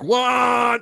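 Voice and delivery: high, loud disbelieving what; a sudden high yelp of disbelief; shocked what. Retold or imitated. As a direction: squeak out your shock at the news. Shocked at character's death.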